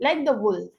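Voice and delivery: "like the wolf" with weight on "wolf", falling; stress on WOLF. Shown as a demonstration. Teacher showing students the stress in "like the wolf", stress on wolf. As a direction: lean on "wolf" in "like the wolf". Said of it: "वुल्फ पर हम ज्यादा stress देंगे".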